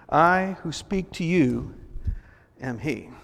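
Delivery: measured, slightly low Bible reading; scripture reading. Acted. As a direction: read the passage aloud solemnly, with pauses. Reads a scripture passage aloud.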